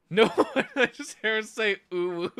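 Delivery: high, loud laughing protest. Real, not acted. Cracks up at chat's reaction.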